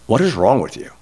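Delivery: imitating a bewildered teenage grandson; baffled disbelief. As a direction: ask it like you can't believe this person. Grandson's puzzled reaction acted out.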